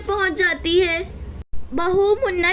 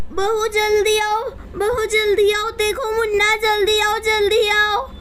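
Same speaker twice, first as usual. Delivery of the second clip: acted alarm, pitched a little up; mild, urgent cry for help; urgent calling out; 3 semitones higher than usual. Mother-in-law calls bahu to the endangered baby, urgent calling. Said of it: "इतने तेज तेज क्यों चिल्ला रही हैं".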